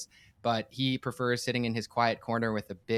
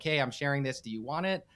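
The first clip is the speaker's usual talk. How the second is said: lightly raised, casual offhand offer; passive offer; 3 semitones higher than usual. Shown as a demonstration. Teacher shows a passive way to share Torah, offhand. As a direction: hand it over like you don't much care. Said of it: "There's passivity".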